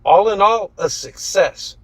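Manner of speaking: high, loud self-satisfied voice; proud of a botched job; smug cheer; pleased with himself. A narrator's reading. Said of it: "pleased with himself".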